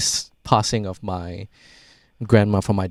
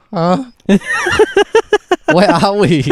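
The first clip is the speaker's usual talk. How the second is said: put-on high, puzzled old grandma voice; confused grandma; 5 dB louder, slower than usual. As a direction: play a bewildered grandma in the car. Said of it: "she would've just been in the car being like".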